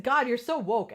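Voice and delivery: mock insult with a stressed WOKE; disparaging. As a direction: say it like it's a bad thing. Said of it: "just because you say it like that".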